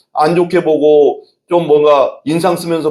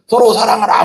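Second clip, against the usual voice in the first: higher, ringing mock preacher's command; Billy Graham exhorting; 8 semitones higher than usual. Pastor imitating an evangelist exhorting a huge crowd, ringing mock command. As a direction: call it out like a revival preacher. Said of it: "막 하면서 막 하잖아".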